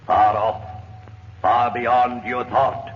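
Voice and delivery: mystic oracle. Acted. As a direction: intone the mystery of death. Spirit reveals death's secret.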